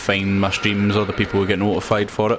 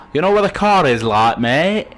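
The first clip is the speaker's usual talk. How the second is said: badly faked Cockney, higher and pushed up; Cockney accent; 5 semitones higher, 4 dB louder than usual. Streamer trying out a hated accent on viewers, hammed-up attempt at Cockney. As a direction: have a failed go at Cockney. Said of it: "that's Cockney, I can't even do it".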